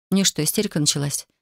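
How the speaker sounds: usual speaking voice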